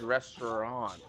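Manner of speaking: "restaurant" carefully drawn out, falling at the end; "restaurant" pronounced deliberately; careful pronunciation. Shown as a demonstration. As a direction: sound out "restaurant" with care. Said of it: "making sure I was pronouncing".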